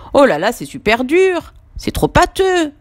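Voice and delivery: put-on a kid griping that it's too hard; grumbling complaint. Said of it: "râle Samy".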